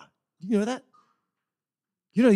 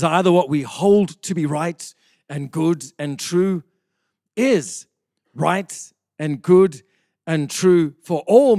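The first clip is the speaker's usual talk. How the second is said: slow, louder solemn proclamation in his own voice; quoted movie line, no accent; 3 semitones lower, 6 dB louder than usual. Retold or imitated. Preacher quoting King Arthur's line to his congregation, slow loud declaiming. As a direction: declaim the king's creed slowly and loudly, no put-on accent. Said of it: "I'm not gonna say it in his beautiful accent".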